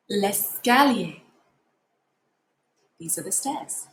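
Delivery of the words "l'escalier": L'escalier slowly, les-ca-lier; slow model. Shown as a demonstration. Teacher slowly models l'escalier after asking them to say it. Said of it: "Can you say it?".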